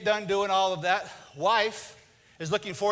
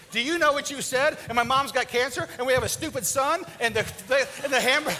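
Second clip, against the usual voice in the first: laughing wife refusal. Retold or imitated. Wife laughingly refuses husband at bedtime. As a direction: laugh while shutting him down. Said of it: "she's like".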